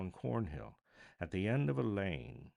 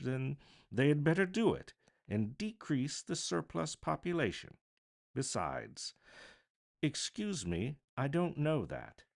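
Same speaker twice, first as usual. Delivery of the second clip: louder, higher heartless miser; harsh Scrooge; 8 semitones higher, 4 dB louder than usual. A narrator's reading. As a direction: dismiss the poor coldly.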